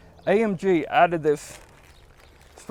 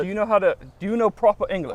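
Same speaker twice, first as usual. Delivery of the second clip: fake British accent; 3 semitones higher, faster than usual. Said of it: "your best British accent".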